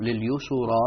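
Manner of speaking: slow "لليسرى" as lil-yusurā; vowelled sin. Shown as a demonstration. Student gives teacher an example, "لليسرى" said lil-yusurā. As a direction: add a u after the s in "لليسرى". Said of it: "يقرأ هنا بتحريك الساكن".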